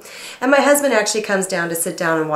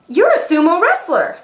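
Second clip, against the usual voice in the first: retold husband; 11 semitones higher, 5 dB louder than usual. Husband's quoted remark.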